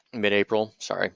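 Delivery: hiccuping mid-sentence; talking through hiccups. Real, not acted. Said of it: "Sorry, I have the hiccups here".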